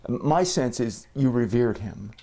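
muffled through a face mask; speaking through a mask. Real, not acted. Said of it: "if I sound a bit muffled in this episode".

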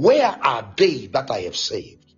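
low, searching question, lightly in role; God's solemn question. Retold or imitated. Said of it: "He's asking".

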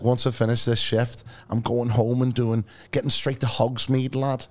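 slow, lightly imitated Scouse cabbie; Scouse accent. Taxi driver describing his game character, imitated Scouse accent. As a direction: draw it out in a put-on Scouse accent. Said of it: "Is that a bad Scouse accent".

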